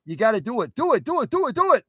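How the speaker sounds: very high, hammed-up fan chant; frantic egging-on. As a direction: egg him on in a squeaky, excited voice. Acting a viewer egging him on.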